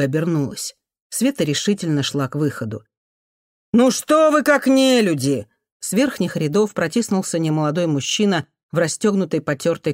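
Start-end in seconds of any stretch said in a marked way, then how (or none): 3.7-5.5 high, loud, slow rebuke; much higher outraged cry; indignant outcry. Acted. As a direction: shame the crowd out loud. Man rebukes relatives.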